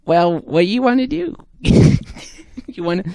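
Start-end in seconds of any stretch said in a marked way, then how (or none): 0.0-1.3 high squeaky nanny voice, laughing through; high put-on nanny voice breaking into laughs; Fran Drescher voice. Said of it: "How does Fran Drescher talk?".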